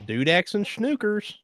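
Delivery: slow, high, mock British nonsense; British accent. Streamer ending the bit for her friends, in a mock British accent. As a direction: croon it like a silly Brit. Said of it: "The British are infecting me".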